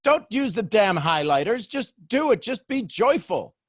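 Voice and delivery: high, loud, bossy mock telling-off; sassy. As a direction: imitate a sassy inner voice, pushed up high. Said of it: "your voice is sassy and you're like".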